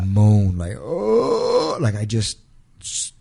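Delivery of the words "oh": imitated wail. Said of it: "I never heard somebody wail like that".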